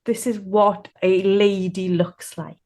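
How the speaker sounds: slow, measured inner reminder; lightly voiced prim self-instruction. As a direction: recite the rule slowly to yourself. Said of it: "that voice inside me saying".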